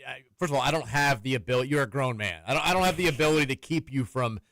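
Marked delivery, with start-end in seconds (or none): none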